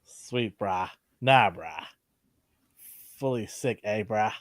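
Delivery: Kiwi slang voice; New Zealand accent. Pretend. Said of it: "All in New Zealand accent".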